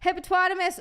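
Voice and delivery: high goofy sing-song word; high, silly and playful. Acted. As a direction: toss it out like a silly jingle.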